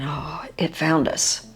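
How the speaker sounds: slow hushed dread; thinking it to yourself, scared; fearful whisper. Retold or imitated. Fearful thought as UFO approaches.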